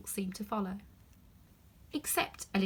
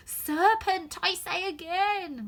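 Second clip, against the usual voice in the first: a touch less shrill; more subdued; 10 semitones higher, 6 dB louder, much slower than usual. A narrator's reading. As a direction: pull it back a little. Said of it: "in a more subdued tone".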